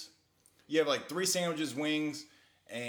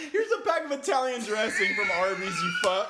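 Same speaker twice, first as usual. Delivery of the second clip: mock shout; 9 semitones higher, 6 dB louder than usual. Playing the Italian bouncer, shouting.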